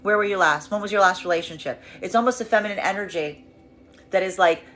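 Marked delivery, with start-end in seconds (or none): 0.0-1.8 curt, guarded questions with pauses between; sharp, tight-lipped. Acted. Feminine questions a returning masculine, tight-lipped and resistant. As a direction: question them coolly, giving nothing away. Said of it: "it's gonna come over through very sharp, very, very, very, very tight mouth, very close lip, very resistant".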